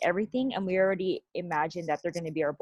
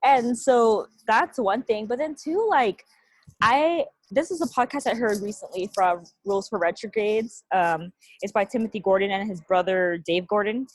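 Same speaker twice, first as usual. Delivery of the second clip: raised voice over loud noise; louder, pushing over the din; yelling over helicopter; 3 semitones higher, 5 dB louder than usual. Real, not acted. Sorry about the helicopter.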